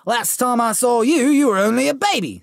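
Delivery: put-on a big fond giant greeting the boy; Hagrid voice. Giant greeting Harry, fond booming voice. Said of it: "said the giant".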